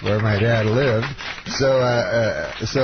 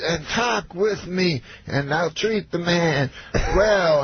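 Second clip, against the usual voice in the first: Cosby impression; 6 semitones higher, slower than usual. Cosby voiced in story.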